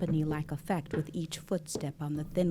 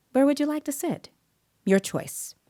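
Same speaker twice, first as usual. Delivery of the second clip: put-on talking to a child; 10 semitones higher, 4 dB louder than usual. Interviewer inviting a shy child.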